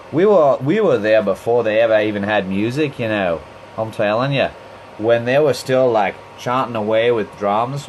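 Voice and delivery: lightly put-on Australian twang, boasting about the band; playful half-hearted Australian accent as a member of a famous band. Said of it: "I'm doing, like, a Australian Beatles, uh, accent".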